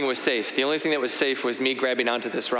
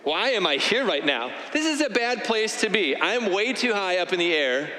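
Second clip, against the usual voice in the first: higher-pitched mock self-scolding; berating yourself; 5 semitones higher than usual. Stuck on a cliff, scolding herself for climbing so high, exasperated. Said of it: "sort of berating yourself".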